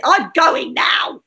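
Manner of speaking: slow, shouted exit line; mock exit shout. Comic leaving the stage with a slow shout. Storming off in comedy bit.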